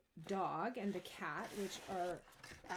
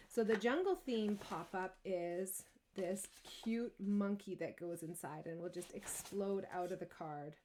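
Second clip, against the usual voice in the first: ordinary talk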